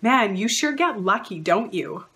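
high, sugary praise turning snide at the end; gush, then slip in the dig; mock sweet congratulations with a sting; backhanded compliment. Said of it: "they'll say something like".

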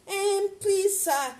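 a hint of a timid pleading seller; mildly hesitant begging; beggarly pitch. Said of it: "you're talking this way".

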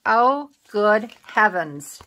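drawn-out flustered exclaim; slow exclamation. Real, not acted. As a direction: stretch out "Oh, good heavens" in slow dismay. Exclaiming at a crafting mishap.

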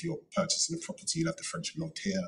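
notaire said in a lightly put-on French accent; a self-mocking French accent on notaire; bad French accent. Solicitor jokingly saying notaire in a mock French accent. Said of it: "terrible, uh, attempt at a French accent".

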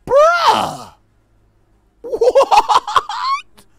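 very high, loud, disbelieving shriek; shocked scream. Real, not acted. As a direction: cry out in horrified disbelief. Shock at losing an eye.

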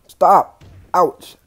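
sharp yell, high and loud; real loud protest; loud shout. Real, not acted. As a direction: cry out to make it stop. Getting choked in game.

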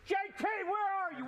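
fast angry yell across yard; shouting for son. Acted. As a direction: bark out the name, rushed. Dad calling out for son.

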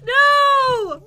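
sudden loud cry of no; shout. Real, not acted. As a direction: shout it out in real panic. Villager about to be attacked.

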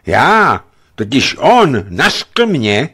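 loud, halting, slow stammer; cornered boyar stammering out an excuse. A narrator's reading. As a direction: choke on the words in a panic. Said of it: "zajíkal se bojar".

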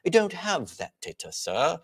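high mock British accent. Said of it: "over there across the pond".

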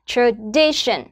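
"Tradition" split slightly, tra... DI-tion; stress on second syllable. Shown as a demonstration. Teacher repeats after explaining stress, DI stressed in "Tradition". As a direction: separate tra, then lean on DI in "Tradition". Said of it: "âm tiết thứ hai là D".

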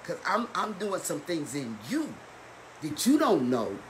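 hushed, low counsel, as if from God; the Lord reassuring. Acted. Preacher voicing the Lord to the congregation, quiet reassurance. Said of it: "Or the Lord tell us".

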